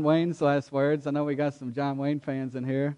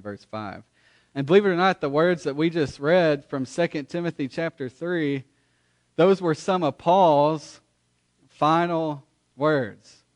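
preaching. Acted. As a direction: preach it out to the whole room. Pastor preaching to congregation.

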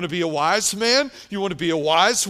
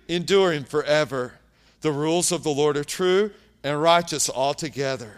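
measured, solemn scripture reading, lightly raised. Acted. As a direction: read each line of the psalm as a proclamation. Reads psalm aloud.

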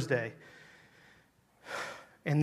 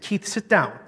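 higher, firm retold order; curt command; 5 semitones higher, 3 dB louder than usual. Preacher showing how he told a man to sit, curt. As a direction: tell him to sit, no discussion. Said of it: "Just like that".

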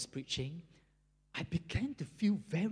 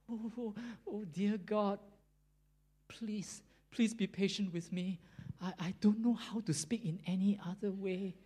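higher-pitched, halting plea; pleading prayer; 4 semitones higher than usual. Retold or imitated. Prisoner begging God for patience, pleading prayer. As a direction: imitate a helpless, hesitant prayer for patience. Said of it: "He uttered another prayer".

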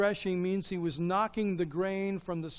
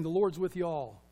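casual Southern "The Lord's with y'all". Shown as a demonstration. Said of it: "Let me say this in Southern vernacular".

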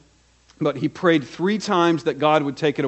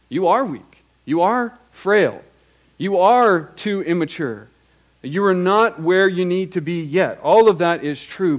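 emphatic preaching; 4 semitones higher than usual. Real, not acted. Preacher building an emphatic point.

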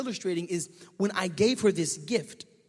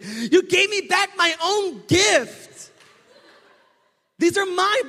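imitating laughing wife; 11 semitones higher, 10 dB louder, much slower than usual. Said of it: "she is dying hysterically".

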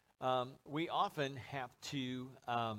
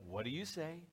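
softer, lilting "what do you say?"; sing-song prompt; 6 dB quieter than usual. Shown as a demonstration. Showing how parents prompt kids, sing-song. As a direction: coax with a sing-song swoop on "say". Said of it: "little sing-song almost".

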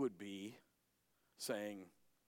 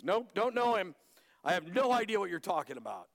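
dismissive denial; 5 semitones higher, 5 dB louder than usual. Acted. Peter's denial acted out.

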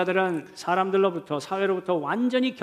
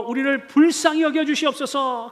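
higher-pitched, moderately raised plea; raised pleading cry; 5 semitones higher than usual. Acted. Lepers begging Jesus for pity, calling out. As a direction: cry up for mercy without a full shout. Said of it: "예수님께 소리 높여".

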